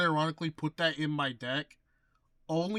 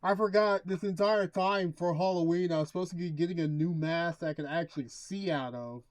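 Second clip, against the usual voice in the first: muffled through a mask; talking from behind a mask; inside a rubber mask. Real, not acted. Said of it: "I cannot see out of this thing".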